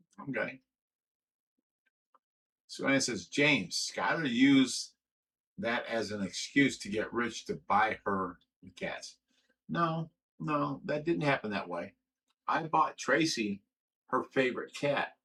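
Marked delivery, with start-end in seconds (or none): none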